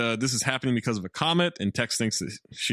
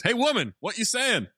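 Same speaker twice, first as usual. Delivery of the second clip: imitating Tex; 10 semitones higher than usual. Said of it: "So he says".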